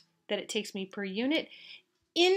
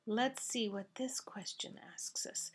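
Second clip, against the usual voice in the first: a soft unvoiced murmur, thinking aloud; whispered aside; 6 dB quieter than usual. Real, not acted. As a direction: whisper it to yourself while checking the question. Muttering to himself while reading.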